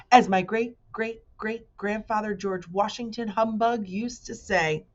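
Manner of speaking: a hint of a sly old uncle; chummy humbug. Humbug advising Milo.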